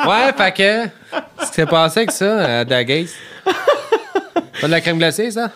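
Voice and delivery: laughing. Real, not acted. Laughing through story.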